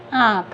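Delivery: आँख with a nasal long aa; आँख, vowel nasalized, falling at the end. Shown as a demonstration. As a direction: let the aa of आँख sound through nose and mouth. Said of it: "कैसे पढ़ेंगे?".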